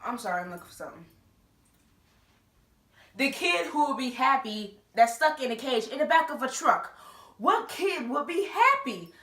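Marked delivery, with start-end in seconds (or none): 3.2-9.1 louder, higher, mocking disbelief; incredulous mock outburst. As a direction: scoff at the idea, loud and high. Mocking James's claim, incredulous.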